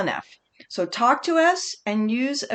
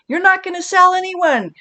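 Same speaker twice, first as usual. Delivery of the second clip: "not" hit high and loud; stress on not; 9 semitones higher, 7 dB louder than usual. Shown as a demonstration. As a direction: lean hard on the word "not". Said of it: "teacher emphasizing".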